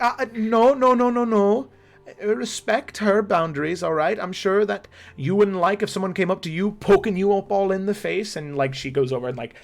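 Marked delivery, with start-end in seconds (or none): 0.0-8.4 higher, louder gentle scolding; Grace scolding. Acted. Grace telling the children to respect boundaries, firm and louder. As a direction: firmly correct the children. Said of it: "And Grace is like".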